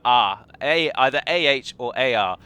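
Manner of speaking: "R" said like the ar in start, open long ah; demo of the A sound. Shown as a demonstration. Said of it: "That's how you say it".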